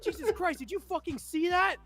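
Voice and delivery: high-pitched astonished exclamation; imitated disbelief. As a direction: act out sergeants tripping out. Retelling sergeants' disbelief.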